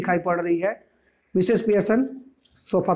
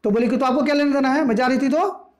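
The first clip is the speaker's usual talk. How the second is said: higher, mildly huffy retort; a touch of anger; 5 semitones higher than usual. Acted. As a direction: snap back at the neighbour, lightly. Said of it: "थोड़ा गुस्सा आ गई".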